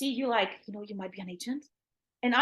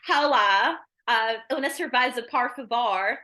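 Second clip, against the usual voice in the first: mock American Spanish; slower than usual. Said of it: "they say".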